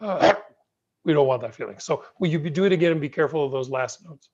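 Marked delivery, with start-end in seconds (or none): 0.0-0.4 a short accented "Ah" popped out like a burp. Shown as a demonstration. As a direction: bump the "Ah" with a blunt accent, a little louder. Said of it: "it sounds more like a burp".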